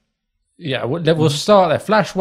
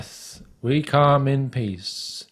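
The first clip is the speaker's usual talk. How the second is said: slow, solemn alien greeting. Acted. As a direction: deliver it like a grand ceremony. Alien tries the greeting again.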